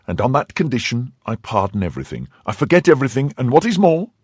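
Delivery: high wife's voice, lofty and firm; granting pardon from above, rising at the end; commanding wife. Acted. Wife dictating terms.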